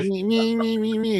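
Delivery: high, strained squeak with no voice left; squeaky sick voice. Retold or imitated. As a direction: imitate a little kid with laryngitis. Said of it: "She sounds like a little kid with laryngitis".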